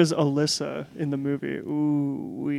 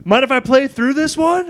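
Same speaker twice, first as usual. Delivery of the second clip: menacing killer voice; 8 semitones higher than usual. Retold or imitated. Voicing the killer in retelling.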